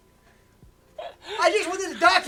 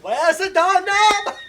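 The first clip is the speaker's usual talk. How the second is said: panicked yell; 2 semitones higher, 3 dB louder, slower than usual. Retold or imitated. Repeating the panicked Joey quote.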